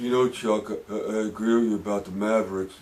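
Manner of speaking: mumbled low and flat. Imitating Shaq answering Chuck on the TNT set: mumbling monotone Shaq impression. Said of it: "He's whispering, monotone, no life".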